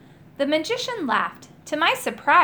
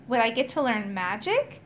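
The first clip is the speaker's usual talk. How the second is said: excited. Acted. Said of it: "I asked excitedly".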